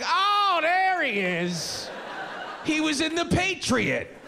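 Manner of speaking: high, slow, drawn-out oh of delight; stoned recognition. Retold or imitated. Stoned viewer to a friend, mock-excited drawn-out recognition. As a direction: stretch it out like you just spotted an actor you know. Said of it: "you're like".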